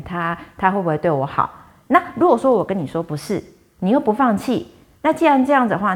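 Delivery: mildly stern lecturing; a firm telling-off, pressing harder in the middle; stern scolding. Retold or imitated. Bodhisattva scolding the woman for not admitting her feelings, mildly stern. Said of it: "严厉的骂她".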